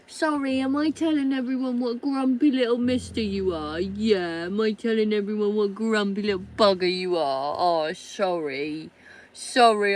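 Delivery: high, loud cooing at the dog. Real, not acted. Owner teasing her grumpy husky in high baby talk. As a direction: tease the dog in a sing-song pet voice.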